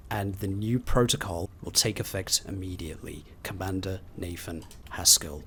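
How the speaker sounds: measured, lightly formal memo read; reading an official notice. Acted. Player reading a security memo aloud, lightly formal. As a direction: read the bulletin like a staff announcement.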